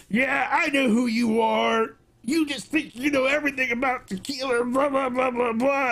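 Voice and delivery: high, sneering mock clerk; mocking shopkeeper. Cabo clerk brushing off the tequila expert, high and mocking. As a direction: scoff at the know-it-all customer. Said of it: "one time they're like".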